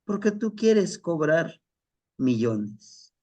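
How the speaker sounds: put-on a resentful young man arguing back at his father; whiny son. Son challenges his father about charging, high voiced and resentful. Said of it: "Le dice".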